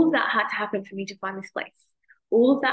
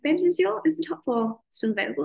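excited; 8 semitones higher than usual. Retold or imitated. Eager message to friend Katie.

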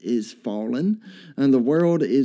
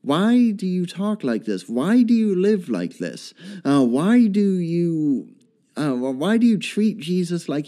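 questioning world; 4 semitones higher than usual. Acted. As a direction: voice the world demanding an answer. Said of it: "the world is going to ask this question".

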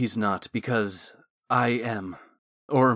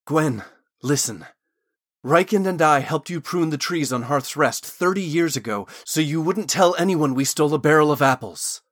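higher, louder, urgent plea; insistent appeal to be believed; pleading; 4 semitones higher, 6 dB louder than usual. A narrator's reading. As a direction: plead with her, building in volume and pitch. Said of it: "Thorn was now pleading".

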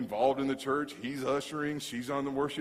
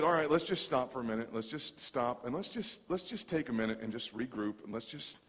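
calming; 3 semitones lower, 5 dB quieter than usual. Retold or imitated. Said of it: "And I just said".

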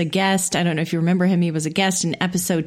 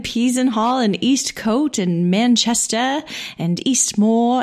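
lightly mimicked British accent on place names; put-on British accent; 3 semitones higher than usual. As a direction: list the towns in a playful British accent. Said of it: "sorry about the British accent".

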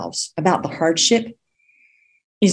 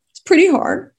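whisper; 12 semitones higher than usual. Real, not acted. Whispered aside about hardship.

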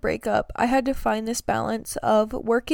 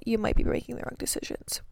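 hushed, fast whisper; whispered warning; 6 dB quieter, faster than usual. Real, not acted. Repeats warning line, whispered.

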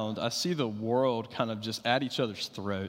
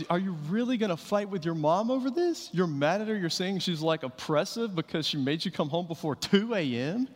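put-on higher, lightly teasing question to a teen; youth pastor's mock challenge; 4 semitones higher than usual. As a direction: gently call a teen out. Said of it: "I would talk to 'em and I say".

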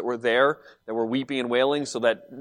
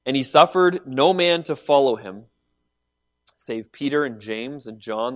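scripture reading; 3 semitones lower than usual. Acted.

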